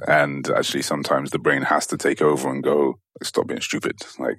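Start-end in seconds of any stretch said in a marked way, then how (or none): 3.2-4.4 stern whispered scolding. Acted. Brain scolding the body.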